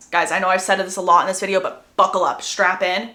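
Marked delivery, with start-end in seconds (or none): none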